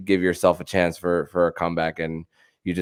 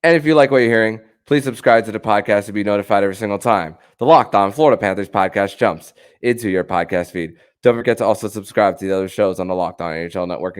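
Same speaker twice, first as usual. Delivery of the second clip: brisk host sign-off, pushing the plugs; upbeat radio-style closing read, quick pace; podcast outro read; faster than usual. Acted.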